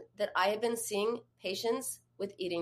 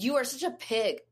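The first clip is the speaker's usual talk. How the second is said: pitched-up accusing "you"; imitating her harsh self-criticism; mean tone; 5 semitones higher than usual. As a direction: throw it like an insult at yourself. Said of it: "in that tone".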